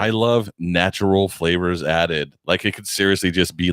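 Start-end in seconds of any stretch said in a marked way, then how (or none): 0.0-2.3 slow sarcastic drawl. Real, not acted. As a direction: drag it out to mock the label. Mocking the label.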